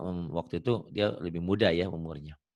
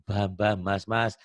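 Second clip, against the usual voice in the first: thick Javanese accent; 4 dB louder, much slower than usual. Shown as a demonstration. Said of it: "medok itu harus".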